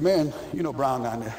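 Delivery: low and sneaky, winding Larry up; sly coach. Retold or imitated. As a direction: coach egging the lineman on, hushed and laughing.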